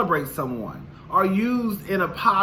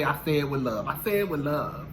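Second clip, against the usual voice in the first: impression of a singer; 3 semitones lower, 5 dB quieter than usual. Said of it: "this is what Michael Jackson say".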